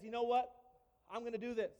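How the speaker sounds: eager, loud burst of resolve; excited. Retold or imitated. David deciding to fight the giant, excited and loud. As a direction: jump at the chance, fired up. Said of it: "Now, David's excited".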